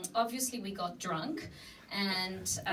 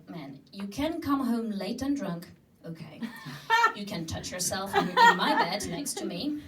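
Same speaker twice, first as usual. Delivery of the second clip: fed up rant; 3 semitones higher, 5 dB louder than usual. Retold or imitated. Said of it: "this is when I lost it".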